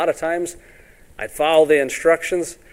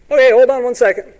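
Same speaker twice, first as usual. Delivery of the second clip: higher, louder servant answering the door; eager servant; 9 semitones higher, 6 dB louder than usual. Acted.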